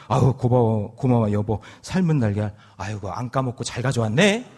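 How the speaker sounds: lightly voiced grateful old husband; lightly voiced old man. Grandpa thanking grandma for the eggs, pleased. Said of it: "뭐라고 했냐면".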